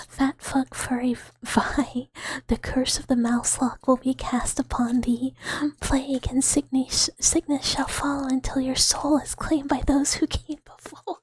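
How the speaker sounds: hammed-up, declaimed doom prophecy; mock curse. Streamer cursing Meryl over a commission, mock-solemn proclamation. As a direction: cast a mock curse, building a little in pitch.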